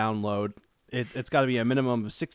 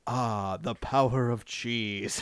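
commercial voiceover; 2 semitones lower, 3 dB quieter, much slower than usual. Retold or imitated. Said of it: "it was just like".

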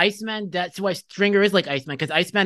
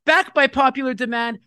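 ring announcer call; 6 semitones higher than usual. Acted. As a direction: call Back by popular demand like a ring announcer. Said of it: "So I'm gonna say it".

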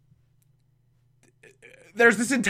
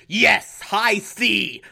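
mock villain proclamation, pitched up; the Minstrel; 4 semitones higher, much slower than usual. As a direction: announce it grandly as the villain. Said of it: "the Mental's like".

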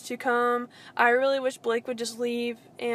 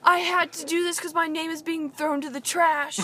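high, sing-song fake-sorry voice; mock whiny apology; 5 semitones higher, 3 dB louder than usual. Mocking the Bachelor guy's fake apology, high and whiny. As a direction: ham up a guy faking remorse.

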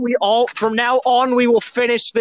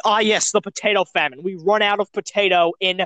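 put-on Russian accent. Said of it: "I just said that in the most bullshit Russian accent".

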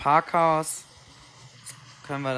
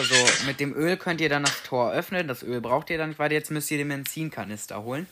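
snotty stuffy nose; speaking with a blocked nose. Real, not acted. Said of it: "Bin komplett verrotzt".

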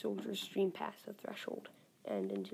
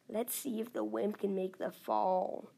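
sneering. Acted. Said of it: "he sneers".

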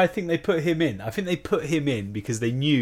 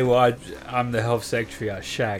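posh politician impression; 3 semitones lower, 5 dB quieter than usual. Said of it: "He would literally just say".

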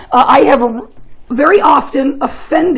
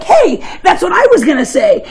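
a bit higher, laughing, fake-agreeing; mock eager agreement; laughing, playing along; quoting Hans; 5 semitones higher than usual. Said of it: "he's like".

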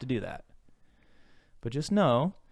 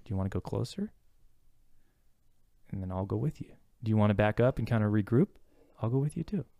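reassuring therapist. Acted. Voicing therapist comforting client.

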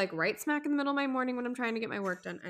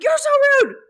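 high, loud shriek breaking into laughter; laughing mock shriek; 15 dB louder, faster than usual. Wife mimicking her husband back, shrieking and laughing. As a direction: fling it back mockingly and crack up. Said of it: "I'm like".

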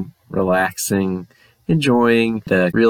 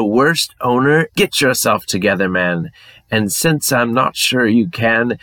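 put-on English accent. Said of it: "All ghosts have to have an English accent".

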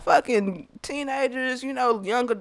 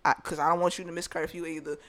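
gentle reassurance; 4 semitones lower than usual. Acted. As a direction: let him down tenderly. Role-played gentle alternative to refusing him.

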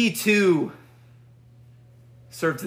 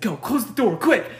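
retold urgency; 6 semitones higher than usual. Retold urgent command from friend.

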